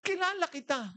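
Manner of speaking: very high, astonished exclaiming; imitated excited recognition. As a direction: act out a starstruck old woman recognizing someone. (gulat at sabik na panggagaya sa matanda)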